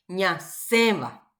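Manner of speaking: "Ñaceba" slowly, stressing a nasal E in "ce"; nasal stressed E. Shown as a demonstration. Teacher modelling a word for students, slow "Ñaceba" with nasal stressed E. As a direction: stretch "Ñaceba" and lean on its nasal E. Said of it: "Fuerza de pronunciación en la E".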